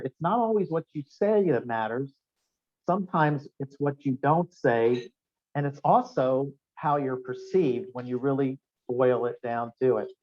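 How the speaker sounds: slow, weighty reading of a favourite quote; quote read slowly. Shown as a demonstration. Speaker reading his favourite quote to the seminar, slow and weighty. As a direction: let each phrase land, unhurried. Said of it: "I always like this quote right here".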